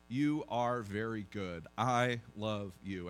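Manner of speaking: slow, gentle and reassuring; slowed-down, tender "I love you"; tender voice of God. Acted. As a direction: say it like a loving father to his child. God's loving words to listeners.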